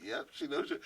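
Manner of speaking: hushed, breathy aside; whispered. Retold or imitated. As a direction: tell him under your breath. Boss telling him, laughing.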